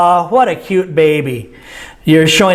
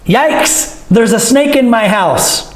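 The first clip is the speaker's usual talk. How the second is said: mild concern; 4 semitones higher, slower than usual. Shown as a demonstration. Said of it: "For fear of concern, but not serious".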